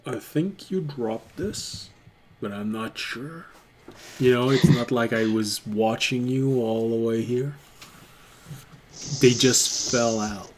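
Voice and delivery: quiet, low-key goblin playing innocent; sly goblin. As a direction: deny the theft softly, as the goblin. Game master voices the goblin.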